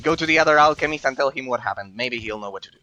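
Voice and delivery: goblin voice. Acted. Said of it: "our goblin voice to read them".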